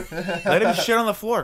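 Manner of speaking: high, slow laughing critter; koala voice. Pretend. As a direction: join in as the squeaky koala. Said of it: "joining the koala bit".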